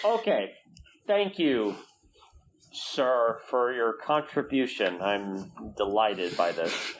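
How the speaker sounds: dry mock thanks, slowing at the end; deadpan fake gratitude; sarcastic thanks, drawn out slowly. NPC reacts sarcastically to frog.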